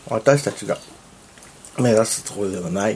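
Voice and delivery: talking while chewing; words round a bite of food; mouth full. Real, not acted. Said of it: "食べながら喋ってるけど。".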